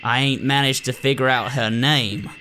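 put-on wobbly folksy doctor voice, accent undecided; badly done doctor voice. Doctor briefing the nurse, voice admittedly done badly. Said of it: "I'm doing her voice really badly".

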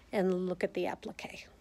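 breathy whisper, barely voiced; hushed whisper to the camera; whispered aside. Real, not acted. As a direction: drop to a whisper as if not to disturb the class. Aside while moving the camera.

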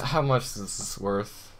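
hushed, stunned disbelief. Real, not acted. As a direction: ask it almost breathless with awe. Asks again, stunned.

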